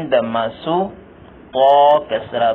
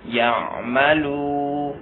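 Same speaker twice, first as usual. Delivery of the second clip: slow drill; much slower than usual. Shown as a demonstration. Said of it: "teacher drills word slowly".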